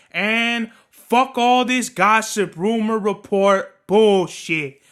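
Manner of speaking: slow, loud listing of disgust; angry rant. Real, not acted. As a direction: hammer each word down. Ranting about gossip.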